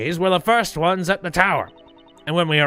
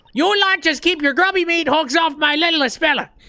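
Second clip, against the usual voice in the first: very high, shrill, furious mother voice; 10 semitones higher than usual. Voicing a mother character who has just burst into the scene: angry mom voice. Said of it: "Angry mom is in the building".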